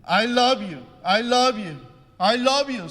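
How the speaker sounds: high, loud joyful-words yell; acted high-pitched shout; child shouting out. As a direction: call it out to the hills at full volume. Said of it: "얘가 소리 지릅니다".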